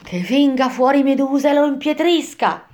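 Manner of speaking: high, put-on monster cry; screeching Furies. A narrator's reading. Furies calling Medusa out on the traveller, high yell. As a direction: cry it high as a curse, without much volume. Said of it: "Vedendomi urlarono".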